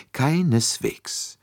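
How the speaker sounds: high, drawn-out polite assurance; eager assurance. A narrator's reading. Poirot assures Monsieur Bouc he has no objection, eagerly polite. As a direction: reassure with slow, courteous emphasis. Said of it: "beeilte sich Poirot zu versichern".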